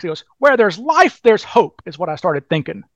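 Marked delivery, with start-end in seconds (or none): 0.4-1.8 a light impression of Mac, pitched higher; imitating Mac. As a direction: lightly voice Mac's hopeful saying. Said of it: "this is the way Mac talks".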